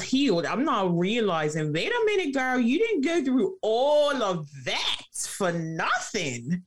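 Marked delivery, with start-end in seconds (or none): 1.7-6.6 inner voice. Retold or imitated. Self-talk quote realizing her worth.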